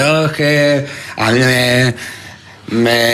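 high, slow put-on voice quoting a colleague; slow, high mock drawl with a stammer; Raúl Cimas impression. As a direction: ham up a comic's character voice. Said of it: "¿Estás transmutando un poco hacia Raúl Cimas?".

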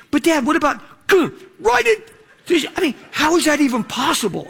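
put-on very high, whiny girl's voice; daughter's voice. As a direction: play the daughter poking at the cut.

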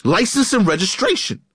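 high-pitched, exasperated mock yell; delirious cop. Cop stopping the same driver a third time, mock delirious. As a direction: imitate a cop at his wits' end. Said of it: "he's delirious".

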